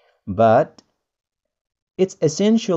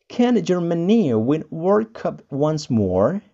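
Can Germany win World Cup once more? said slower; a slower, careful second take; slower repeat; 3 semitones higher, slower than usual. Shown as a demonstration. Teacher repeats the sentence slowly for learners. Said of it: "ada contohnya".

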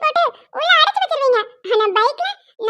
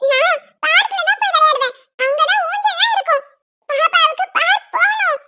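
put-on stubborn, whiny small-child plea; tearful insistence; 3 semitones higher than usual. Little girl refuses to play at home, tearfully insisting. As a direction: hold out for it, close to crying. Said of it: "நீ அழாத".

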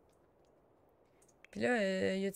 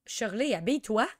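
loud yell with "Shirley" stressed; real exasperated shout; shouted order; 2 semitones higher, 8 dB louder than usual. Real, not acted. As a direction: yell at her to get dressed. Yelling at naked character.

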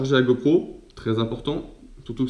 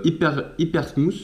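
hyper smooth in an English accent, a bit higher; French speaker's English accent on hyper smooth; 4 semitones higher than usual. Real, not acted. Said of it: "excusez-moi pour mon accent anglais".

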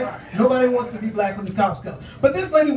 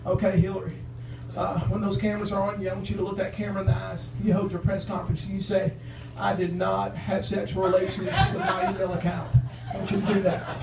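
lightly voiced Bill Clinton, low and soft; low, hushed Bill coaching; 4 semitones lower, 6 dB quieter than usual. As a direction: murmur advice like a sly old pol. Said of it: "He's like".

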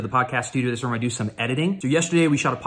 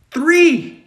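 much louder and higher; exasperated exclaim; 9 dB louder than usual. Real, not acted. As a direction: count it out in disbelief. Exasperated counting.

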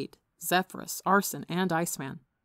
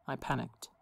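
weak, soft, lower admission; 4 semitones lower, 6 dB quieter than usual. Acted. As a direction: let it fall out weakly. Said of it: "he finished in a weak voice".

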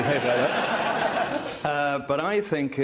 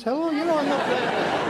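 put-on Scottish accent; 11 semitones higher than usual. Regional accent weather forecast.

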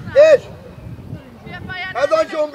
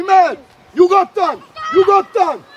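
loud sideline call, falling at the end; shouted encouragement; 3 semitones higher, 4 dB louder than usual. Real, not acted. Coach sending Domi forward, shouted encouragement. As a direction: shout each word out to the player.

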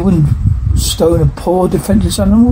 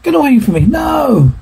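shouting; 6 semitones higher than usual. Acted. A woman shoving off an attacker, shouting. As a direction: shout her off in panic.

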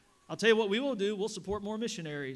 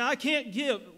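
imitated excuse; 5 semitones higher, 8 dB louder, slower than usual. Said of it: "I say".

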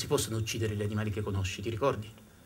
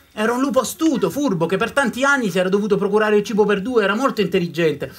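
louder and higher, building frenzy; rising storytelling intensity; 7 semitones higher, 8 dB louder than usual. A narrator's reading. Storyteller building up the hunt for the clever wolf, intense. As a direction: let the town's obsession swell.

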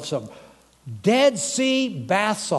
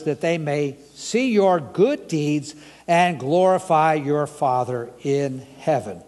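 scripture reading. Acted. Reads scripture aloud slowly.

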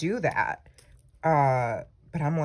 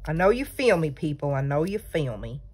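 playful Southern lilt; Southern accent. Pretend. Crafter confiding hoarder habits to her viewers, light Southern accent. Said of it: "I don't know why the Southern accent".

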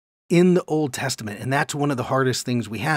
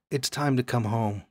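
tender; 2 semitones lower, 6 dB quieter than usual. Shown as a demonstration. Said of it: "Speak tenderly to Jerusalem".

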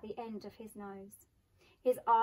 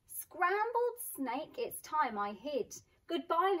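startled snake; 5 semitones higher than usual. Acted. Snake panics and hides.

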